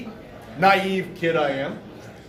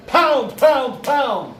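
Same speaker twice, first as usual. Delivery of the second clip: heavy, evenly hammered knocking imitation; knocking that insists on an answer; louder imitated knocking; 4 semitones higher, 5 dB louder, much slower than usual. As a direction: pound out the knocks, loud and high.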